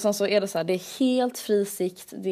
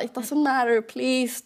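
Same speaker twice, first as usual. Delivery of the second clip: pleading; 5 semitones higher than usual. Retold or imitated. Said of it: "Jag bara".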